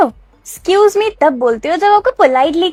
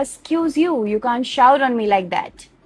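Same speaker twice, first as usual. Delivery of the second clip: softer, slow pointed excuse you; correct retort; 5 dB quieter, much slower than usual. Shown as a demonstration. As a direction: pointedly call out the rudeness. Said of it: "आपको बोलना पड़ेगा".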